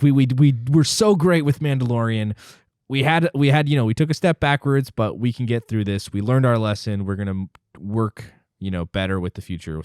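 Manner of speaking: mock studio voice. Mocking the studio's self-pep talk.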